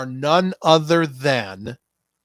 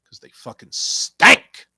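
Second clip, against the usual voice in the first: disgusted outburst; 6 semitones higher, 8 dB louder than usual. Real, not acted. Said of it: "mock disgust".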